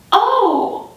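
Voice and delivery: high, laughing nervous dodge; high-pitched uneasy suggestion; nervous dodging. Retold or imitated. Dodging his bathroom request.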